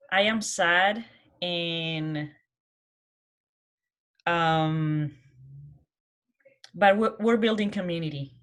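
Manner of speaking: usual speaking voice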